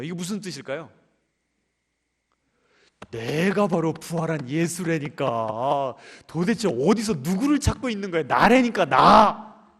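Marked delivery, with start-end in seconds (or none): 3.1-9.7 slow, building to loud insistence on 나; exasperated Jesus. Acted. Jesus insisting to Mary, rising to a loud cry. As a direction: plead it, louder and louder.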